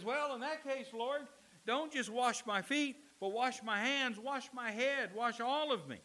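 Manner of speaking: high, loud, escalating plea; Peter, overeager. Acted. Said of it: "Peter swings from one extreme".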